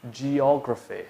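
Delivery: geography said slowly and clearly, stress on the second syllable; model pronunciation. Shown as a demonstration. Teacher modelling geography for students to repeat. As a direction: carefully model geography with a falling end. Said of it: "Now, to say this is".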